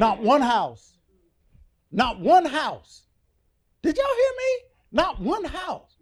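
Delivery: "Not one house" slow, each word pounded loud; stress on "Not one house". Acted. Preacher repeating the verse to shake the congregation, slow and emphatic.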